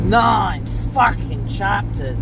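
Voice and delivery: rough, smoker's rasp; hoarse voice. Real, not acted. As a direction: talk with a worn, husky throat. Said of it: "I sound like I've been smoking cigarettes all day".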